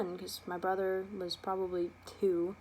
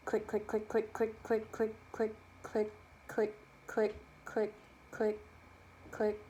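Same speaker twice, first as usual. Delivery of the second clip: imitated coaster clicks. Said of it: "I heard the roller coaster go".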